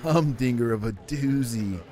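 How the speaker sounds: surfer dude. Acted. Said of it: "that broed out surfer dude voice".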